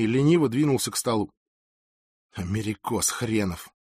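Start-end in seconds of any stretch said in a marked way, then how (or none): 2.3-3.7 low, soft, slow muttered insult; muttered whisper. A narrator's reading. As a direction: say it slowly under your breath. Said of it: "прошептал Франциско". (презрительно, вполголоса)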